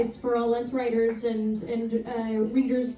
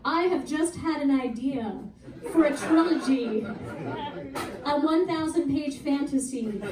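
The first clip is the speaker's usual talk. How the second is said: mock-announce it as an eager would-be author; deliberate, hammed-up boast, lifting at the end; imitating a self-important social media announcement; excited online writer; 3 semitones higher than usual. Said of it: "people that are like".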